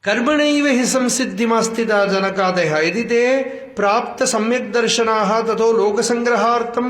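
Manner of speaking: fast scholarly chant of the Bhashya; rapid Sanskrit recitation. Acted. Teacher reads the Bhashya aloud to his students, rapid recitation. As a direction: rattle off the commentary at speed, one breath stream.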